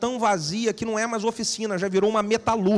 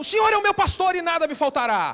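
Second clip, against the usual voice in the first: put-on, high, loud shout carrying far; 8 semitones higher than usual. Retelling a church story, a speaker imitates one congregant shouting. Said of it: "um grita lá do lado assim".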